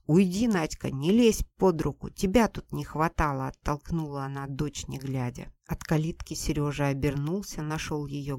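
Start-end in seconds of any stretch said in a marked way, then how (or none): 0.1-3.5 louder, curt brush-off; irritated mother. Acted. Mother snaps at Nadya to stay out of it, loud and irritated. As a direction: push the girl aside with words.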